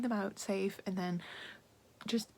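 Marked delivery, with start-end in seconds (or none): none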